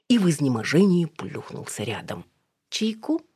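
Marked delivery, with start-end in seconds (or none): 2.7-3.2 purring offer. A narrator's reading. Alina purring tea at Edik. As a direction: purr it like a flirt. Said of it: "промурлыкала Алина".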